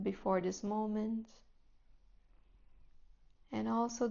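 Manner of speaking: calm, unhurried guidance with long pauses; guided meditation. Real, not acted. Teacher settling students into seat, breath and body, guided meditation voice. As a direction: ease them gently into stillness, phrase by phrase.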